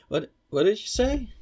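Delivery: loud, clearly spoken question; clear shout. Real, not acted. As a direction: call it out clearly, mouth empty. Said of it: "shouldn't speak with my mouth full".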